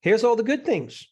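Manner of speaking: body's inner voice. Pretend. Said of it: "the body's saying".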